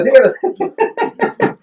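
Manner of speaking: "sigue erutando" alargado, muy agudo y lento, subiendo; anímalo cantando, en tono muy alto y lento; ánimo cantado, agudo. Retold or imitated. Anfitrión anima a eructar. (como anfitrión feliz, canturreando)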